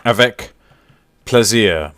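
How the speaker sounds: French phrase in a put-on accent; playful try at French pronunciation. Shown as a demonstration. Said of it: "French accent".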